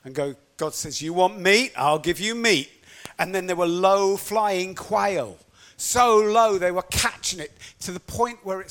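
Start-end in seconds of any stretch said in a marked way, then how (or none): 1.0-2.7 stern retort. Acted. God answering complaints about meat.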